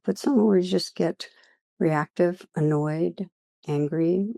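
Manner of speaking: unhurried meditation guiding with long pauses; guided meditation. Real, not acted. Teacher leading listeners through a practice on judgment, guided meditation. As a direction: lead listeners gently inward, leaving long silences.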